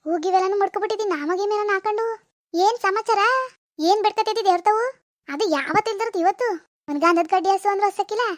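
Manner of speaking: lightly voiced mother ribbing her daughter; teasing mother. (ಮಗಳನ್ನು ಹಾಸ್ಯ ಮಾಡುವ ತಾಯಿಯ ಸ್ವಲ್ಪ ಗಟ್ಟಿ ಧ್ವನಿ)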